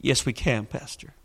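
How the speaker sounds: quiet, fading, gentle answer; tender near-whisper; soft reply. Retold or imitated. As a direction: say it softly, almost gone. Husband answers softly.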